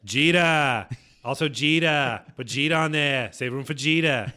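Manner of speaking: put-on names said with a Boston accent. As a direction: slip into a Boston sports-fan accent. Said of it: "Why'd you do that in a Boston accent?".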